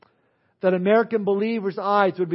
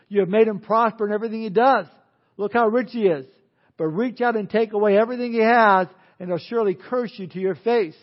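mildly sneering challenge, raised and pressing; sneering devil; 2 semitones higher, 4 dB louder than usual. Acted. The devil challenging God about Job, lightly sneering. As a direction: argue back at God with a touch of a sneer. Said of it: "and, and, and sneers".

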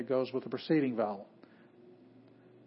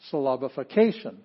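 "syllabification" punched loudly on the CA syllable; shifted stress; 5 dB louder than usual. Shown as a demonstration. Teacher showing where to hit the word, "syllabification" stressed on CA. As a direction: lean hard on CA in "syllabification", then fall. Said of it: "where do you hit the word".

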